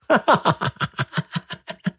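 breathy scornful laugh, high and airy; a queen laughing off his question; mocking laugh. A narrator's reading. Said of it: "وهي تضحك بسخرية".

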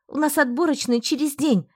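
angry. Acted. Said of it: "справившись со злостью".

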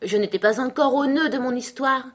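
high, indignant protest; furious tone. A narrator's reading. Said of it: "d'un ton furieux".

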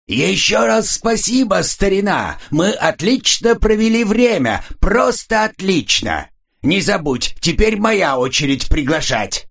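a jolly guest thanking his driver friend; cheerful man. Acted. Cheerful man waving off his friend, booming high. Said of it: "Раздался весёлый мужской голос".

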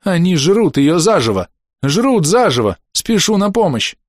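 театральный надрыв, высоко и громко; сыграй показной ужас, как плохой актёр; hammy stage actor. A narrator's reading. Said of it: "с надрывом воскликнул". (с надрывом, театрально)

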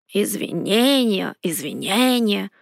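slow, muttered «извинения» twice, falling; a sulky dragon grumbles into his nose; grumbling dragon. A narrator's reading. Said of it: "проворчал недовольный дракон". (недовольное ворчание дракона)

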